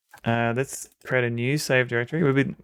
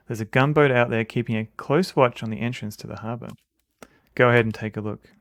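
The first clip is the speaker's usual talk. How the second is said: louder, commanding sub captain; 5 dB louder than usual. Acted. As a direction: read it as a gruff-free ship captain giving orders. Voices the captain.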